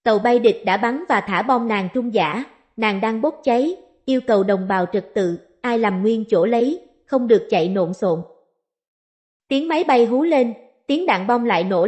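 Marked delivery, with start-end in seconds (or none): 0.0-8.2 L turned to N, "nàng" for làng; lisping report. A narrator's reading. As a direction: say "nàng" with an N where làng has an L. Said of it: "báo cáo tình hình ngọng liếu".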